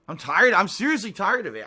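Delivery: loud, exasperated outburst; fed up. Real, not acted. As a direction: blurt out how fed up you are. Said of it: "'cause I'm getting angry".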